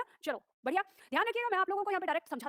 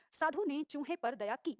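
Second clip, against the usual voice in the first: slow correct reading; slower than usual. Shown as a demonstration. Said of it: "ये सही है".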